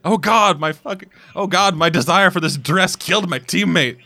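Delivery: high, drawn-out melodramatic despair; mock lament. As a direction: wail it in hammed-up remorse. Mock lament over dead teammate.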